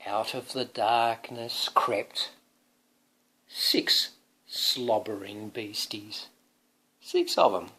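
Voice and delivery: slow creeping then loud fleeing; dramatic storybook. Acted. Father reading the climax to son, dramatic storybook voice. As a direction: build to the beasties' arrival.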